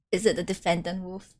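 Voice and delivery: ordinary talk, nothing marked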